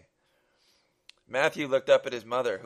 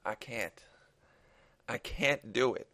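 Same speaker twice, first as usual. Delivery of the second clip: desperate pleading. Acted. Father refusing the gunman's choice, understated desperate plea. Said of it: "pleaded in a tone of desperation".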